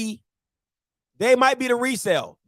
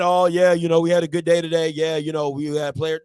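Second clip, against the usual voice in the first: lower, lazy coach soundbite; a coach mumbling routine interview lines, mildly lower; mock bland coach interview; 6 semitones lower than usual. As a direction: imitate a coach giving empty quotes. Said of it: "Some cordial interview".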